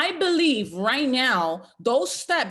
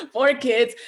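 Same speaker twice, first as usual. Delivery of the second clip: laughing; 6 dB louder than usual. Real, not acted. Laughing at her own joke.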